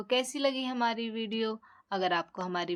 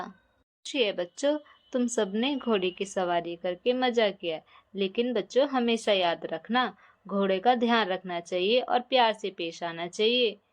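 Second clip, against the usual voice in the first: kindly uncle; 2 semitones lower than usual. Acted. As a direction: advise the kids like a kindly uncle. Voices the horse man.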